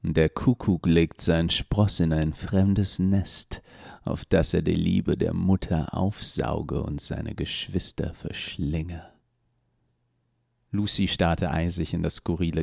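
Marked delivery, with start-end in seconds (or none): 0.0-9.0 slow, lightly deepened solemn intoning; deep rough voice. Acted. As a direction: intone it like a gatekeeper's oath. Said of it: "mit einer tiefen und rauen Stimme".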